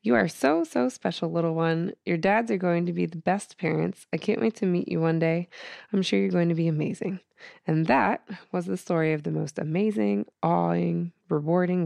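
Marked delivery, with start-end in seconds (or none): 0.0-7.2 tender note. Retold or imitated. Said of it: "I wrote a little note to her".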